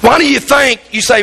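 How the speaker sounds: normal talking voice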